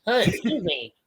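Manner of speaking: a lightly put-on polite white guy; white person voice. Cohost demonstrating his white person voice, lightly put-on. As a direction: ask it in a prim, mannered voice. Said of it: "my white person voice".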